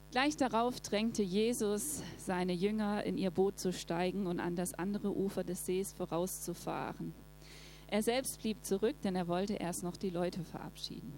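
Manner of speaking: steady, measured Bible reading; calm scripture reading voice. Acted. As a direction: read the passage to the congregation. Reads Bible passage aloud.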